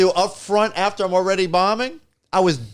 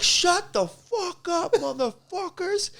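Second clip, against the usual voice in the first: mock threat; 12 semitones higher, 4 dB quieter, much slower than usual. Waving gun at hecklers.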